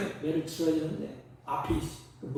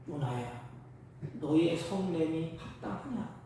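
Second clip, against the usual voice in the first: gentle God; 3 dB quieter than usual. Acted. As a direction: ask it tenderly, like a father to his son. God gently asking Jonah. (낮고 부드럽게 타이르는 하나님)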